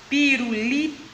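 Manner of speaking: "pirulito" split into four slow syllables. Shown as a demonstration. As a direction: pause between the syllables of "pirulito". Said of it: "ela tem quatro sílabas". ("pirulito" separado em sílabas)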